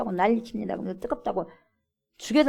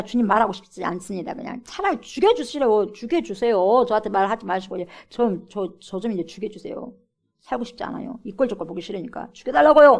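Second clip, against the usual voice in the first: sulky plea to die; 4 dB louder than usual. Acted. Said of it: "막 하는 거예요".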